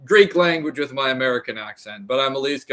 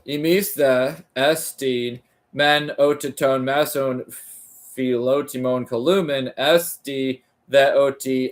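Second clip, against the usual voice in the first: smooth, connected second reading of the same Greek phrase; now read it through in one flowing line; fluent reread. Shown as a demonstration. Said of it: "Imis columen, oh".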